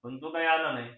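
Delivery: quiet confession. Acted. Son quietly explains the prank to his brother. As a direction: own up gently. Confessing why they staged it.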